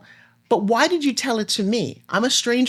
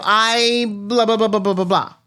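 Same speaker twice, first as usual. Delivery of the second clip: mock babbling answer; slower than usual. Answering a stranger at a party, mock babble. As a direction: run the blahs together as one drone. Mimics a rambling self-introduction.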